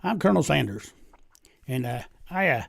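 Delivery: lightly played Southern drawl, pitch lifted on the opening; genteel Southern businessman, lightly drawled. Colonel Sanders makes his pitch to the Pope in a Southern drawl. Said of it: "in a southern drawl".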